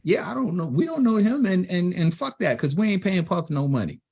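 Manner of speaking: high-pitched dismissive imitation; Dame. Label partner refusing to pay for a guest, dismissive.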